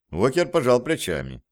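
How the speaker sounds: ordinary delivery, nothing marked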